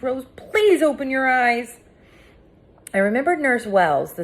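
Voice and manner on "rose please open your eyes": pleading. A narrator's reading. Pleading over unconscious friend.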